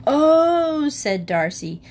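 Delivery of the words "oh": high surprised oh; sudden bright exclamation; child feigning surprise at the table. Acted.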